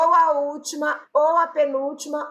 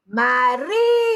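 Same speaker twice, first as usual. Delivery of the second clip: MARÍTIMA with RÍ held long and strong; stress on RÍ; 3 dB louder than usual. Shown as a demonstration. Teacher proving the tonic syllable, marítima with a greatly stretched RÍ. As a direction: hang on the RÍ of marítima, then finish TIMA. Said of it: "A sílaba tônica é o ri".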